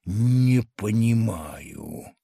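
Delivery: slow, low and heavy, a bewildered giant; giant's slow low voice. A narrator's reading. Bewildered giant muttering to the tiny crowd, slow and low. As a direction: drag the words out deep like a puzzled giant. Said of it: "проговорил вслух".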